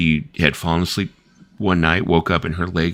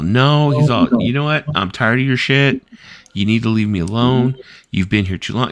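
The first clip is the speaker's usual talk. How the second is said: raised, higher voice telling someone off; angry sleep talk; 5 semitones higher, 3 dB louder than usual. Retold or imitated. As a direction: snap at an unseen visitor to get out. Sleep-talking friend ordering someone away.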